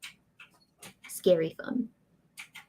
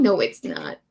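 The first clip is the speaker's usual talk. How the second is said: usual speaking voice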